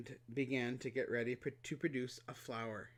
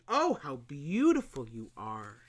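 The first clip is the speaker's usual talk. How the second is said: lightly voiced boy, louder in awe; admiring little prince; 7 dB louder than usual. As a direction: gasp it out in wonder. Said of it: "could not restrain his admiration".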